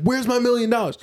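mock shouting. A rapper shouting at the interview, mock yell. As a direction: shout it like a greedy rapper. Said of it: "he started shouting".

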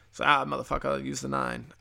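lightly voiced tough-guy golfer; a hint of a brash caddy, barely shifted; Mark Wahlberg voice. Mark Wahlberg caddying for Brady, lightly imitated. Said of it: "that's my Mark Wahlberg voice".

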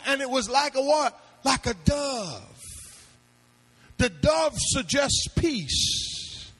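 call-and-response sermon delivery; impassioned preaching. Real, not acted. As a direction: preach it out to the congregation, stretching the big words. Preaches at full force.

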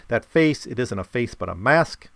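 lightly acted accuser, loud burst at the start; indignant accuser. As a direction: read it as a mild, punchy accusation. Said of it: "here's what one guy says".

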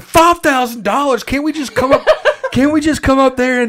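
high, laughing disbelief; incredulous laugh. Retold or imitated. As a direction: laugh at the absurd price. Retold shocked reply, laughing.

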